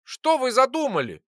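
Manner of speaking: high, loud alarmed question; frightened cry. Acted. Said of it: "испугался я".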